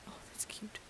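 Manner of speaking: whispered coo at something cute; a soft whispered aww. Real, not acted. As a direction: breathe it out softly, charmed. Cooing at a cute spirit.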